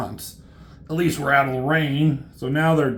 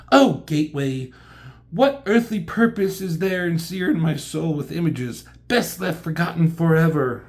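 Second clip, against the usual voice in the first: raised theatrical lament; melodramatic pleading heroine; 4 semitones higher, 4 dB louder than usual. Acted. Elektra begging Gateway about searing images, hammed-up anguish. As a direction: plead in overblown tragic style.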